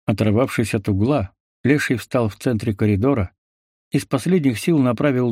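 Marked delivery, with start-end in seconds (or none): none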